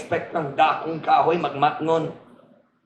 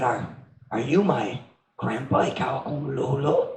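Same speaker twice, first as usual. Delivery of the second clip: timid little tree; 3 semitones lower, 10 dB quieter than usual. Acted. Small tree asks grandpa timidly.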